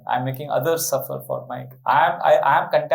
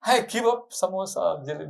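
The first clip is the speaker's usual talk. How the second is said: mock difficult renunciation; 5 semitones higher than usual. Devotee tempted by hot pizza, mock reluctant pledge. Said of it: "then will I be able to say".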